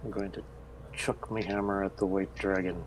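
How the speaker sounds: ordinary talk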